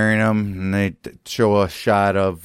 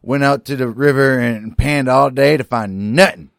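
higher, louder mock grievance; Mister Garrett; 5 semitones higher, 5 dB louder than usual. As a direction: complain with mounting exasperation. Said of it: "Then you got Mister Garrett comes back home".

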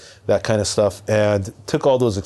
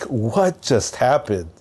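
stunned; much slower than usual. Retold or imitated. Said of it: "like, speechless".

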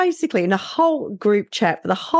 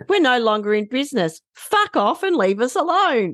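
quoted with a laugh; 5 semitones higher than usual. Retold or imitated. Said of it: "Pierre said".

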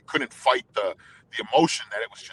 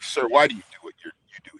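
pressing question; 8 dB louder, faster than usual. Retold or imitated. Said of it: "I'm like".

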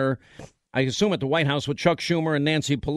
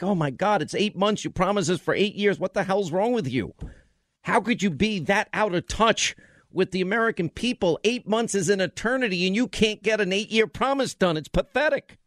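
indignation climbing higher toward the end; exasperated rant; 3 semitones higher than usual. Retold or imitated. Host berating Mitch over an eight-year promise, exasperated. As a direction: scold in building disbelief.

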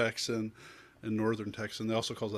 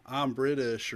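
mock British accent, a bit louder; 3 semitones higher, 4 dB louder, slower than usual. Shown as a demonstration. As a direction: put on a rough British accent. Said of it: "you were in the accent".

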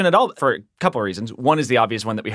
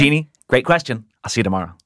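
newscaster sign-off; faster than usual. Pretend. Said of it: "say goodbye in your newscaster voice".

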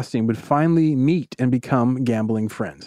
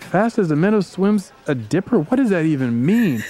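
baffled disbelief; 5 semitones higher than usual. Acted. The Brain baffled by Southern saying.

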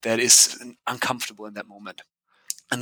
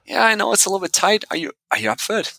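quoting Mike; 9 semitones higher, much faster than usual. Retold or imitated. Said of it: "quoting Mike on the phone".

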